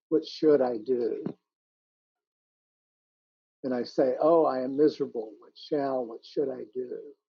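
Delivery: measured, unhurried poem reading, each line repeated; gentle recital of a poem. Acted. Reads a poem aloud.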